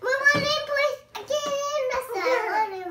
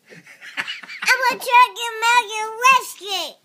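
laughing through the words; giggling; 4 semitones higher, 8 dB louder than usual. Real, not acted. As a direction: squeal it while laughing. Child laughing silly.

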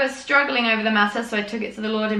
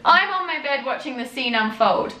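raised, hammed-up gravity; milk the drama of the tie feud; hammed-up reading of the elders' tie feud; mock dramatic reading; 4 semitones higher, 3 dB louder than usual. Reads the journal on, building.

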